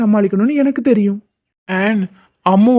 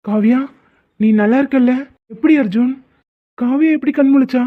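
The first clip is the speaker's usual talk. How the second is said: amazed; 4 semitones higher than usual. Acted. Amazed she is awake.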